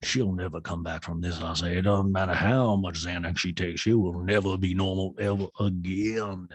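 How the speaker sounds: mock-grave impression, starting low; grim, lightly put-on voice; Sutton. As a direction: intone it like a dark prophecy. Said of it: "Sutton's like".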